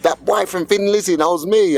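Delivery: high Irish voice, proudly bragging; a rock singer's Irish accent. Retold or imitated. Star bragging about a fan, in a high Irish voice. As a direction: imitate the star boasting in Irish. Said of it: "it's like Phil Lynott going".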